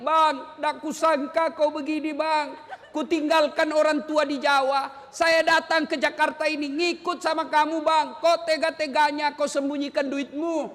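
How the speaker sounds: a hint of a hurt wife scolding her husband; lightly voiced wife, upset but not cursing; complaining wife. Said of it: "Boleh marah seperti itu". (istri yang kecewa, mengeluh pada suami)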